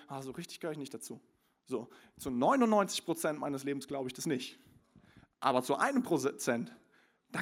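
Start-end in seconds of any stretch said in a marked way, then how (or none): 0.1-1.2 inner doubt. Retold or imitated.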